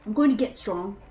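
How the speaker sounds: put-on a light British accent as a sulky boy; British accent diary. Game master reads Zeke's childhood diary to players, light British accent. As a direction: read the boy's diary in a mild British accent. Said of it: "we'll try the accent again".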